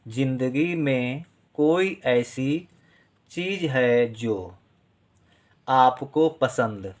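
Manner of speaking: slow, deliberate reading aloud for students to write; measured dictation voice. Acted. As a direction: read each phrase slowly so they can write along.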